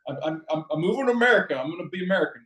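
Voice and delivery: put-on high-pitched, joking American accent; playful American accent. Canadian joking about moving to America, playful American accent. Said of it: "I gotta practice my, my accent".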